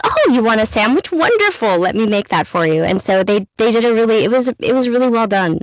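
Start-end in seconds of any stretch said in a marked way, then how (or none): 0.0-2.8 mock cheerful parent. Parents answering Spanish request.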